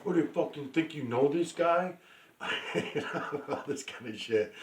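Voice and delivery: high, sneering imitation of a hater; mocking critic voice. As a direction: mimic a scornful viewer. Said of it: "I'm being sarcastic".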